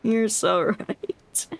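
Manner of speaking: slow, flat deadpan; dry, unimpressed echo; deadpan agreement. Pretend. Mock agreeing with officers.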